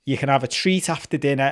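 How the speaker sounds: lightly voiced strict dad laying down the rules; stern parent. Dad telling the kids no ice cream, lightly stern. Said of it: "So it's like".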